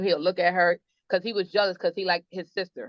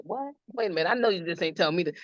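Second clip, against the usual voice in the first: mock disbelief; 3 dB quieter, faster than usual. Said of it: "And I was like".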